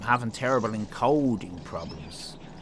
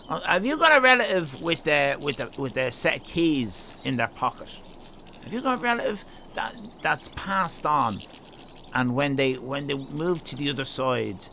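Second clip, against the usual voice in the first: mock psychic medium. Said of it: "sounding like a bloody psychic".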